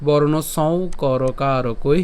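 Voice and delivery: slow recitation in separated chunks; broken-up recitation. Shown as a demonstration. Teacher breaks the shloka up for learners' ease, slow recitation. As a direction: recite slowly, pausing between the pieces. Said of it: "শ্লোকটিকে আরেকটু ভেঙে দিয়েছি".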